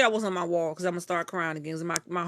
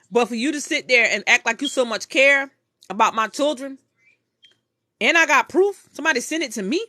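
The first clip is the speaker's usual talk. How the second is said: raised, louder, accusing; angry callout; 3 semitones higher, 6 dB louder than usual. Real, not acted. To the mother who faked caring, angry and loud. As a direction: call her a snake to her face. Calling out a woman on live.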